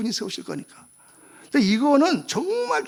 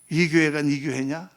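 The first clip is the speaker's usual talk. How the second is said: God pressing again; 5 semitones lower, slower than usual. Retold or imitated. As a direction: press the question home. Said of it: "나한테 말씀하시는 거예요".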